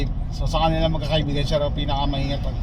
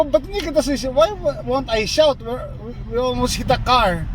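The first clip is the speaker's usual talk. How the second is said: retold shouting; 7 semitones higher than usual. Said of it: "sinisigawan ko daw siya".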